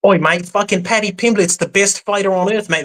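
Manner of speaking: mock Scouse with a pub swagger; lightly put-on British lad; British accent. A British impression requested by the host. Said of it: "That's almost Australian".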